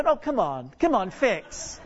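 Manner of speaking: acted gentle pleading with a computer; mock-patient plea; nice coaxing. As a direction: coax it nicely, half-joking. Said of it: "you begin nicely, don't you?".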